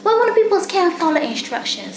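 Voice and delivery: upset rant. Real, not acted. Fed up with quarantine rule-breakers, real exasperated outburst. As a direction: vent hard at the people who broke quarantine. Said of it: "What got me upset".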